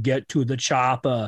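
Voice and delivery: put-on slow Austrian-accented action-hero line; Arnold Schwarzenegger. Dad quoting daughter's movie impression, slow Austrian accent. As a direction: lightly put on a thick-tongued Austrian accent, slowly. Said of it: "good impression of Arnold Schwarzenegger saying".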